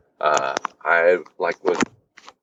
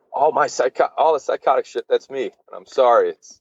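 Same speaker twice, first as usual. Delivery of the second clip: apologetic dad; 4 semitones higher than usual. Retold or imitated. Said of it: "He's like".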